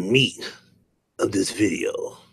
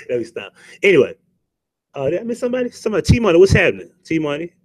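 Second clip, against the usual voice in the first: ordinary talk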